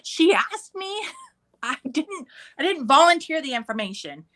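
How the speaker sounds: high-pitched mock innocence, half laughing; defensive protest. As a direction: plead your case to an accusing daughter. Mom defends herself to daughter.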